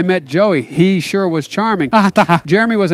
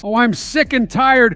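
put-on sleepy grumpy old man; 3 semitones higher, slower than usual. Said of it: "sleepy and grumpy Biden".

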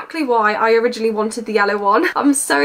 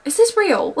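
higher, amazed disbelief; as if you can't believe your eyes; real delighted disbelief, pitched up; surprised; 6 semitones higher than usual. Real, not acted. Shocked by full-size brushes.

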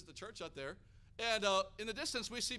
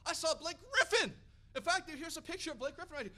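imitating a starstruck wife, high and loud; excited announcement; 9 semitones higher, 6 dB louder than usual. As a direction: gush the celebrity sighting, playfully exaggerated. Retold wife announces celebrity sighting.

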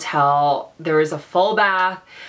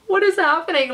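much higher, stunned disbelief; high, incredulous cry; 10 semitones higher than usual. Real, not acted. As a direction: ask it as if the world just fell apart. Shocked by the hotel.

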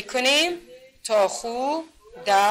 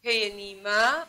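slow demonstration; much slower than usual. Shown as a demonstration. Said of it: "یک بار شما اشاره کنین".

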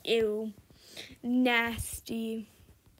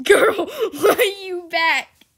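slow, louder, laughing through it; laughing incredulous question; laughing disbelief; 6 semitones higher, 8 dB louder, slower than usual. Real, not acted. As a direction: laugh at her coming back.

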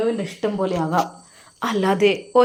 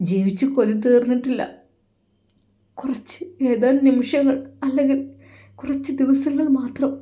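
tearful; 3 dB quieter than usual. Acted. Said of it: "Sinan കരയുകയാണ്".

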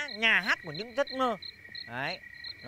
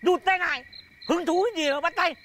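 jealous anger; 4 semitones higher than usual. Acted. Jealous rival greets him.

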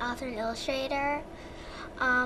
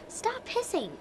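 put-on annoyed girl; 9 semitones higher, 3 dB quieter, slower than usual. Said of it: "Melanie told Audrey".

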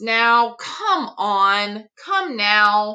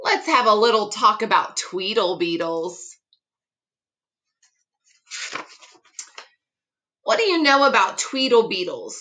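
rapid-fire patter; faster than usual. Acted. Fox rattles off tongue twisters.

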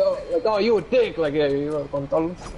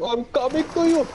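high-pitched mock moaning; mock porn voice; 10 semitones higher than usual. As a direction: ham up a cheesy porn actor. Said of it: "watching Indian porn".

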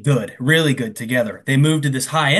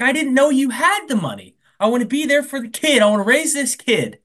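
imitated pleading; 9 semitones higher than usual. Brian pleads with Jordan.

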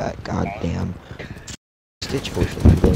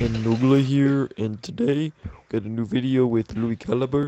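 Irish nerd voice. Pretend. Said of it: "that Irish nerd voice".

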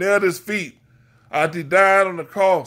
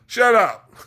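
"Shut up." flung out higher and louder; shouted rebuke; 5 semitones higher, 4 dB louder than usual. Real, not acted. Preacher scolding judging sinners, shouted rebuke.

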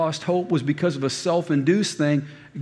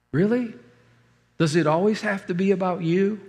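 wife's rebuke; 4 semitones higher than usual. Retold or imitated. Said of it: "And she's like".

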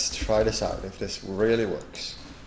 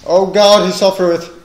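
loud, high theatrical wail; mock dramatic lament; 12 semitones higher, 18 dB louder than usual. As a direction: overblown Shakespearean grief.

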